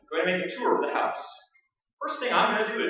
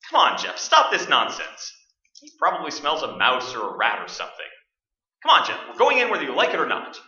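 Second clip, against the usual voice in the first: urging the dog; 5 semitones lower, 6 dB louder than usual. Acted. Coaxing dog on leash.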